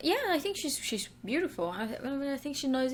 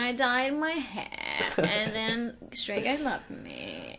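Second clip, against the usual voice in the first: mock her flat fried voice; vocal fry monotone. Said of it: "vocal fry monotone".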